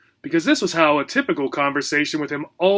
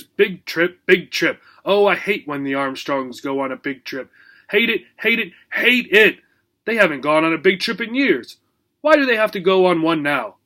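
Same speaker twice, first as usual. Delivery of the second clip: moaning dog. Acted. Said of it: "he moaned".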